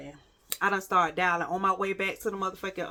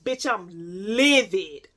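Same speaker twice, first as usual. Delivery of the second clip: livid; 3 semitones higher, 4 dB louder than usual. Retold or imitated. Storyteller relives finding the apartment empty, livid. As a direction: replay the outrage, stretching the last "livid". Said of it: "I'm still thinking like".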